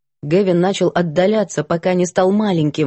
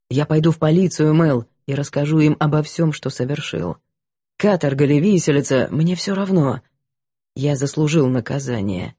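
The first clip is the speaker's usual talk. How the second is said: low, somber confessing voice; a guilty man baring his soul; repentant man; 3 semitones lower than usual. Acted. Гэвин клянется покаяться. (кающийся мужчина, низкий голос)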